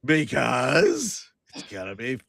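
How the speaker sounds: slow, creepy explanation; teasingly creepy and drawn out. Acted. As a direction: stretch it out creepily, sliding up. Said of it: "how come you're saying it creepy".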